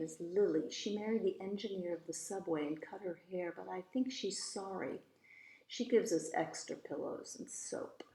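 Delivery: lively, expressive storybook reading; story narration. A narrator's reading. Eloise telling about her mother and the lawyer, storybook narration. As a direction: read it as a chatty child narrator's tale.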